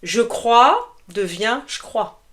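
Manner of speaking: "je pense" said as "j'pense", the E swallowed; slow demo, then "je pense" run together with no E; dropped E. Shown as a demonstration. Teacher demos spoken French to students, dropping the E. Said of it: "on oublie souvent le E".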